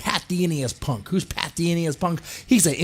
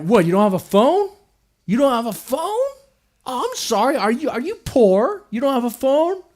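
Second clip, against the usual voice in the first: mock condescending; 9 semitones higher than usual. Company mocking fans without phones.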